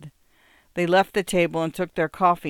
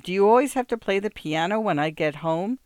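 raised, exasperated complaint; irritated complaint; 4 semitones higher than usual. Acted. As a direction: nag at her, fed up. Man shouting about the piano.

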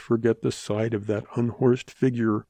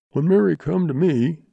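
higher, louder blustering fat man; 6 semitones higher, 5 dB louder than usual. A narrator's reading. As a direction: play the goggle-eyed fat man. Fat man voiced in story.

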